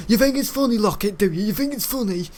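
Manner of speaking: high, loud mock teacher yell; imitated angry shouting. PE teacher catching a pupil laughing at him, imitated angry shout. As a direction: mimic a furious teacher confronting a pupil. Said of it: "one time he did".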